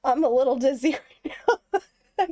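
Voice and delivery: ordinary talk, nothing marked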